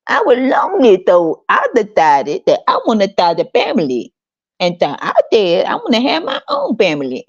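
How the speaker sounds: mock prissy parent talk. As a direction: mimic a smug parent announcing a family. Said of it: "They always talk like that".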